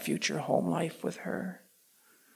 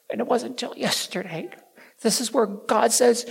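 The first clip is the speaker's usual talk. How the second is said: ordinary talk, nothing marked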